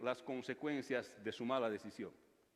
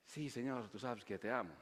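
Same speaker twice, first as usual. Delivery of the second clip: lower, softer, changed voice for Pedro; ashamed Peter; 5 semitones lower, 5 dB quieter than usual. Acted. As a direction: answer as if shamed by the question. Peter answers Jesus, ashamed.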